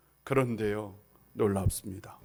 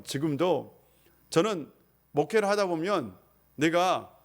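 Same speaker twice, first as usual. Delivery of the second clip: ordinary talk, nothing marked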